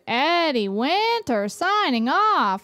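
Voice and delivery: dramatic villain sign-off. Retold or imitated.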